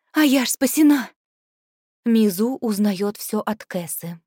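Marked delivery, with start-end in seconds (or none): 0.1-1.1 higher, louder, stress on спасена; joyful relief. Acted. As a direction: cry спасена out in triumph. Joyful repeat, stronger. (радостно, с ударением на «спасена»)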